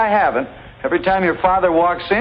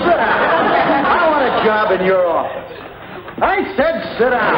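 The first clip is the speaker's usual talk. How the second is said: forceful command; 2 semitones higher than usual. Acted. Suitor tries forcefulness.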